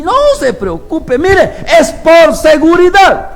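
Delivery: slow, high, put-on voice of a careless dog owner; dismissive neighbour. Proud neighbour waving off the father's warning, high and slow. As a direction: brush it off, drawing the words out.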